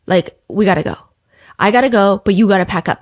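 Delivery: understated serious urging. Retold or imitated. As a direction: say it low and earnest, relaying his words. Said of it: "see him be very serious".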